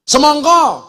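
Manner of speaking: "Semongko" with round o sounds; Javanese pronunciation. Shown as a demonstration. Preacher listing Javanese "Semongko" with o sounds. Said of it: "Apa maning yuk?".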